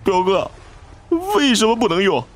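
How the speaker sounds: high, aggrieved whine of protest; indignant high-pitched cousin voice. A narrator's reading. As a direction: argue back in a high, wronged voice. Slapped cousin protests to the narrator.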